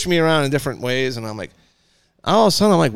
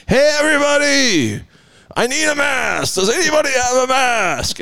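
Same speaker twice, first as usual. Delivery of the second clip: high, raised call to a whole shop; 11 semitones higher than usual. Retold or imitated. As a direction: announce it to the room. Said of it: "like I was holding up the place".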